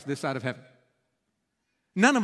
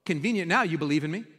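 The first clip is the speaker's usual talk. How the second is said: sarcastic paraphrase; 2 semitones higher than usual. Retold or imitated. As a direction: needle Thomas for his convenient faith. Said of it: "And Jesus says".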